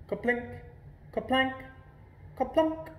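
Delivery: sing-song climbing kaplink, kaplank, kaplunk; berries plinking in a pail. A narrator's reading. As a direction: ring out the three plunks like notes climbing up. Berries dropping into tin pail.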